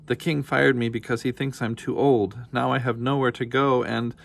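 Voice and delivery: upset pleading. Acted. Frightened nanny pleads with dragon.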